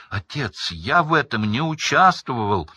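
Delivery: loud, high denial. A narrator's reading. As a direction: shout him down. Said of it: "Ещё громче крикнул".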